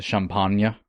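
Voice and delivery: "champagne" as sham-PAHN-yuh; annoying pronunciation. Shown as a demonstration. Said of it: "annoyingly pronouncing it".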